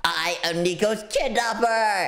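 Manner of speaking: lightly voiced villain; a hint of a sinister kidnapper; evil voice. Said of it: "I'm gonna speak in my evil voice".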